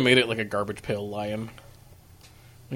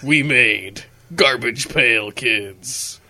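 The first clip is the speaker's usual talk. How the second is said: trailer announcer voice; 4 dB louder, much slower than usual. Acted.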